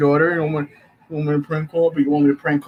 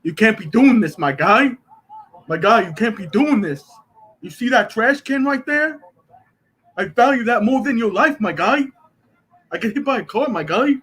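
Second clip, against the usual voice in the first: higher, mock-tough threat; Rami voice; 6 semitones higher than usual. Streamer does friend Rami's voice for a prank, higher and mock tough. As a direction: puff up like Rami making threats. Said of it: "I'm gonna do the Rami voice".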